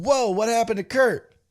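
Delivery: high, loud startled reaction; acted shock. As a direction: play the alarmed onlooker. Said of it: "As Rhonda is going".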